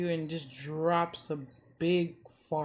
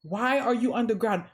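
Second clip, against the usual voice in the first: frustrated rant; 4 semitones higher than usual. Retold or imitated. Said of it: "And they're like".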